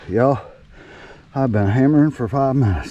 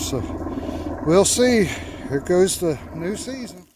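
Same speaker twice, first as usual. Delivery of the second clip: yelling over helicopter; 5 semitones higher than usual. Real, not acted. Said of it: "Sorry about the helicopter".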